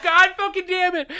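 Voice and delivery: loud, high exploding curse; retold furious curse. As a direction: blow up at the empty cabinet. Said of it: "I was like".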